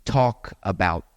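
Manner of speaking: "talk about" slow, run together as "talkabout"; linked words. Shown as a demonstration. Teacher demonstrating connected speech to the audience, slow linking. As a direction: glide "talk" straight into "about". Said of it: "connect words like".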